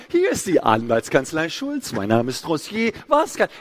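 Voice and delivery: slow receptionist singsong, jumping up on "Was kann"; gesungene Telefonansage. Retold or imitated. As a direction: parody a rote switchboard greeting. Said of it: "es wird gesungen". (nachgeahmter Telefon-Singsang der Kanzlei)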